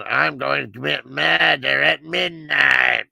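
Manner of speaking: slow, disguised voice-changer voice. Retold or imitated. Killer calls his victim, speaking in a slow voice-changer voice. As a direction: stretch each word out like a distorted phone killer. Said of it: "this voice changer".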